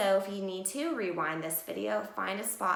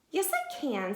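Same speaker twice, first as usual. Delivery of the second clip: confident duck; 8 semitones higher than usual. Acted. Duck boasting in story.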